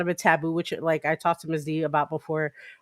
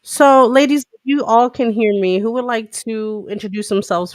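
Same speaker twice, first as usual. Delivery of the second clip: calling out; 4 semitones higher, 7 dB louder than usual. Real, not acted. Addressing the group loudly.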